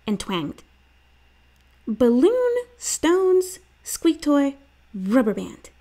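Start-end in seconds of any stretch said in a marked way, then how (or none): 1.9-5.7 put-on high, quick boy's answers; Stink voice. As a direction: rattle off like a keen kid. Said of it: "Stink said".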